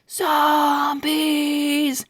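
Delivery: high crowd chant; crowd shout. Acted. Crowd answering the bookstore lady, high chant. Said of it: "Everybody screamed at the top of their lungs".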